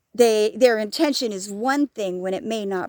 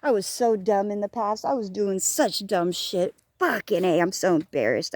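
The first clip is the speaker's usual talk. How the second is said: self-scolding inner voice; 2 semitones lower than usual. Retold or imitated. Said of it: "because I'm like".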